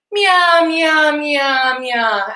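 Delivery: high, playful meowing; cat meow. Shown as a demonstration. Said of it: "vocal warm-up meows".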